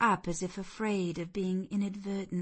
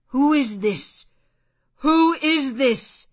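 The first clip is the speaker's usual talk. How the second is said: demanding; 8 semitones higher, 12 dB louder than usual. A narrator's reading. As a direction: demand an answer, voice rising higher. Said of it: "he demanded".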